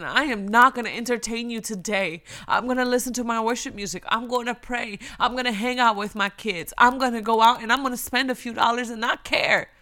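firm, emphatic declaration to Satan; defiant. Acted. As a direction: stand your ground, punching each resolve. Acts out talking back to Satan.

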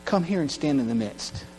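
soft, tender invitation; gentle rabbi call. Acted. Rabbi gently calls the crippled man forward, soft and tender. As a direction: call him kindly, softly. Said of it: "he says".

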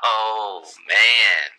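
smooth-talking sleazy politician; flirty mayor voice. Acted.

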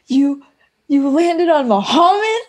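high-pitched mock disbelief; incredulous movie quote. Quoting Superbad to a co-host, incredulous. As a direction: imitate a baffled movie character. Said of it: "when he goes".

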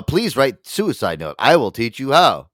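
slow, stilted machine speech; robot voice. Pretend. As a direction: speak like a cold chatbot.

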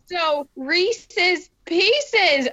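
Reese's Pieces said very slowly; slow realization. Shown as a demonstration. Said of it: "I'm seriously having a moment".

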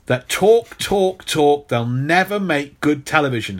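mock executive. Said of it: "network executives".

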